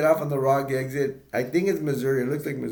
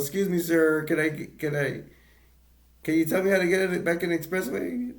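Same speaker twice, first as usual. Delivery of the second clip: polite lost driver; 5 semitones higher than usual. Retold or imitated. Lost dad politely asks a pimp.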